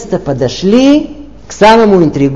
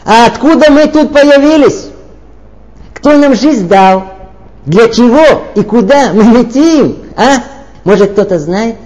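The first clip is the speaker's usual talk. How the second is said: louder; 2 semitones higher, 3 dB louder than usual. Retold or imitated. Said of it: "погромче".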